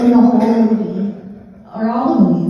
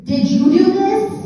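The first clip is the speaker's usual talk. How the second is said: higher, lightly voiced small boy; little boy asking; 8 semitones higher than usual. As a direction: ask it like a curious little kid. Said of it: "this little boy looks up at me and goes".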